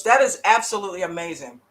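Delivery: words round a mouthful; chewing while talking. Real, not acted. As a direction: still chewing chips. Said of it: "sorry, I'm chewing on some Fritos".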